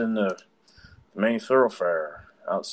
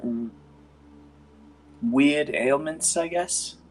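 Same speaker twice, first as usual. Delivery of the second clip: lightly raised, hesitant healer voice; an unsure healer, a bit higher; Augusta; 4 semitones higher than usual. Acted.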